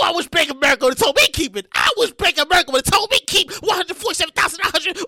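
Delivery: fast, worked-up rush; rapid-fire wishful outburst; excited wishing. Real, not acted. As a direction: rattle it off eagerly. Wishing the windfall were his.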